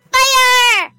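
high, drawn-out battle yell; yelled command. A narrator's reading. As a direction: bellow the order to the troops. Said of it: "I said, and yelled".

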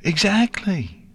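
high, drawn-out agreement with a smile; pleased. A narrator's reading. Filly confirming her friend understood, pleased. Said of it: "said with a smile".

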